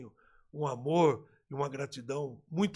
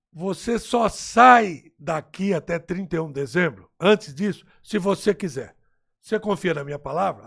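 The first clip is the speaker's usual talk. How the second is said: firm promise; 12 dB louder than usual. Retold or imitated. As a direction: lay down the promise word by word. President's firm promise retold. (promessa firme, lenta e enfática)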